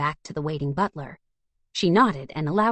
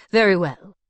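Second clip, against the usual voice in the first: stuffy; 3 semitones higher, 6 dB louder than usual. Acted. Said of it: "he finally said stuffily".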